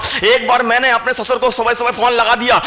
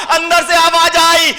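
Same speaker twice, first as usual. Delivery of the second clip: ordinary talk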